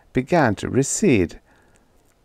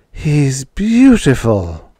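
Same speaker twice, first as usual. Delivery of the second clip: slow, higher, louder awestruck gasp; breathless awe; 5 semitones higher, 6 dB louder, much slower than usual. A narrator's reading. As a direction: marvel at him, drawn out slowly. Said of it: "Edith gasped for breath".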